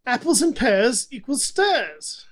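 amateur Cockney voice, drawn out; put-on Cockney. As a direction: read it out in a mock Cockney accent. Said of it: "That's my Cockney voice".

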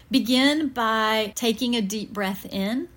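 unhurried breathing guide with long pauses; guided meditation. Real, not acted. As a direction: ease them gently into relaxation, pausing between breaths. Leads a guided breathing visualization.

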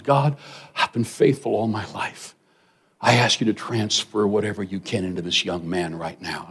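soft, earnest imitated prayer; praying. Preacher praying over the young man, softly pleading. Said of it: "he starts to pray to God".

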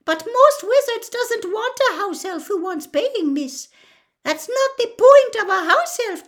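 high, loud squeaky elf voice; a little elf standing up for himself; indignant house elf. A narrator's reading. Dobby telling Harry about freedom, high and squeaky.

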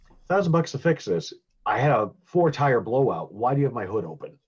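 who'd pay that much?; incredulous. Pretend. Nick Cage hearing the repair price, high incredulous. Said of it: "if Nick Cage was talking".

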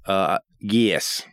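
light mock Australian accent, slow at the end; attempted Australian accent. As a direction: answer in a put-on Australian accent. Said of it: "you gotta answer in Australia".

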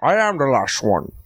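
slow, measured character impersonation; the dragon. Acted. Comic proving he does one impersonation, slow dragon voice. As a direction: intone it as a slightly put-on character. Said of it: "I told you the impersonation I do".

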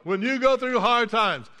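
usual speaking voice

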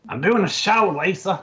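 high-pitched mock complaint; mock exasperation. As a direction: play an exasperated husband calling to his wife. Mock quote of yelling at wife.

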